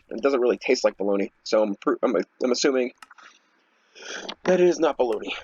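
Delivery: talking through a mouthful; words around a bite of sandwich; chewing while talking. Real, not acted. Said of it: "I'm trying to eat a sandwich while I do this".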